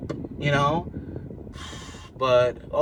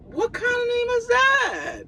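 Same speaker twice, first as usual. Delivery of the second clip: much higher, shouted disbelief; incredulous shout. Retold or imitated. Father hearing the baby's name, high shouted disbelief. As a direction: yell it like the name is absurd. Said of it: "And I'm like".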